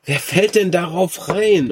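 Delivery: laughing disbelief. Real, not acted. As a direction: say it through laughter. Repeats it laughing.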